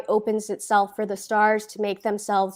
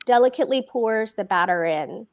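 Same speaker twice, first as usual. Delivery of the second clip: plain reading voice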